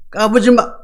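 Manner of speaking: mild mocking put-down; scornful warning. Preacher repeats God's reply to the wicked, mildly scornful warning. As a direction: imitate laughing off a puny challenger. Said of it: "하나님 비웃으신대요".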